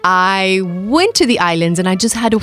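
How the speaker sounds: lightly put-on British accent; chatty, genteel British accent. Shown as a demonstration. Guest showing off a British accent for the host, British accent. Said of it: "just talk like that for a second".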